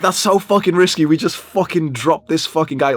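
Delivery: high, urgent protest; alarmed arguing, retold. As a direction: plead the danger to a stubborn friend. Retold arguing with stubborn friend.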